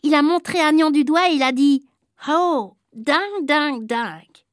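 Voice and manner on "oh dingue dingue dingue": slow, drawn-out delighted repeating; foreign boy voice. Acted. New boy delightedly repeats the word he learned. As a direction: savour the new word slowly.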